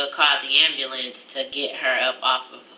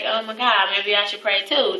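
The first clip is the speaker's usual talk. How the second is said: retold scared; 4 semitones higher than usual. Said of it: "I was really scared".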